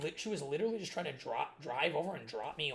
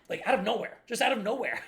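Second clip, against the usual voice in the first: laughing disbelief; 6 semitones higher, 8 dB louder than usual. Real, not acted. Laughing at absurd story.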